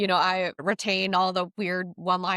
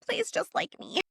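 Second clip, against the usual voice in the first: much higher, breathy pleading assistant voice; robot-like Siri plea; 14 semitones higher, 4 dB quieter than usual. Retold or imitated. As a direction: beg like a phone assistant. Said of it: "talk like a robot".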